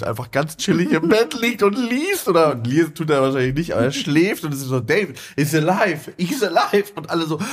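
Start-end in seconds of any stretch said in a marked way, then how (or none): 4.8-6.9 excited shouting. Retold or imitated. Housemates find David alive.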